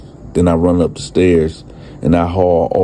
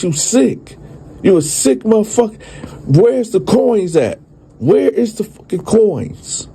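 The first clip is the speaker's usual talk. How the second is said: retold angry demand; 13 semitones higher than usual. Teller confronts old man.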